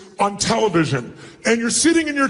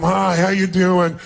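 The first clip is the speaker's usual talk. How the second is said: slow, lower, can't-be-bothered hello; bored greeting; 3 semitones lower, slower than usual. Shown as a demonstration. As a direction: greet them like it wastes your time. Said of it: "like it's a total waste of your time".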